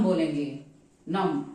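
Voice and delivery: "numb" said as "नम", no b sound at the end; silent b in numb. Shown as a demonstration. Teacher showing the learner how to say "नम" without the b. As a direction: say "नम" with the b dropped. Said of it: "बी का यहाँ पर आप pronounce नहीं करेंगे".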